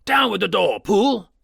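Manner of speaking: high, loud command; shouted order. Acted. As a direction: order the butler to break the door. Ordering the butler.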